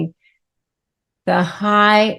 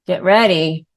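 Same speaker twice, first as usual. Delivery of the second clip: ordinary delivery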